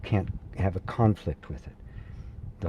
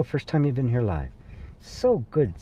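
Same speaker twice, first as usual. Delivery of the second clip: usual speaking voice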